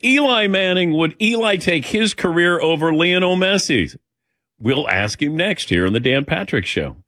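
radio host throwing to break; punchy show teaser; broadcast tease. Real, not acted. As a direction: sell the upcoming segment. Host teases next segment.

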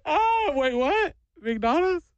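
put-on high, tearful child voice perking up; imitated crying kid. Kid hearing about McDonald's, high sniffly surprise. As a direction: mimic a kid whose crying suddenly halts. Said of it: "I watched this kid immediately go".

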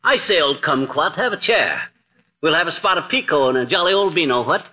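a light, hammed-up British toff accent; mock British accent. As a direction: play the jolly British host, lightly. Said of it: "this Bond Street brogue".

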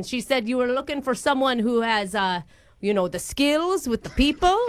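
badly faked Irish accent; put-on accent. Prank caller cites Natalie's recommendation, in fake Irish. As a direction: keep up the mock Irish accent. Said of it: "flow in and out of different accents".

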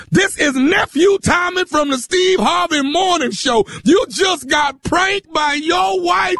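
host shouting that the prank is over; triumphant reveal shout. Real, not acted. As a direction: call out the prank with glee.

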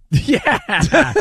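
yeah through a laugh; amused laughing yes. Real, not acted. Laughing agreement.

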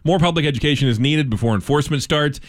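steady radio news delivery; measured news-anchor reading. Acted. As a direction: read it as a local newscast. Reads local news.

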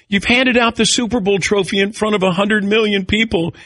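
mock high wife voice; a light imitation of his wife. Husband mimics his wife, lightly voiced. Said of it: "my wife goes".

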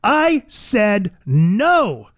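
slow, drawn-out stern scolding; retold scolding, each word stretched; upset mom. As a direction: imitate a fed-up mother laying down the law. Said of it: "she finally got upset and said".

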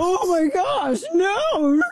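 high, drawn-out fake wail; mock horror. Host mocking critics over a beer celebration, mock horror. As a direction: wail in hammed-up outrage.

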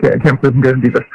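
fast, nervous rush; rushing the words nervously. Real, not acted. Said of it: "you sound so nervous right now".

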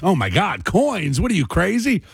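coins said with hammed-up disbelief; mock horror. Mocking young people's horror at coins.

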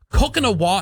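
1 daughter's sing-song. Retold or imitated. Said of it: "She goes".

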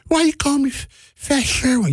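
put-on high, hurt kid's voice; young Sherwin whining back at the grown-up; little kid voice. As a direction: play the hurt little boy who's been called fat.

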